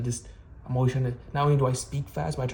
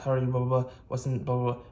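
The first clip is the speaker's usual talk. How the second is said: hurried, words blurring together; fast speech demo; faster than usual. Shown as a demonstration. Vlogger mimicking his own rushed talking habit, hurried. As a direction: rush through it like you're not being listened to. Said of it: "I speak very fast".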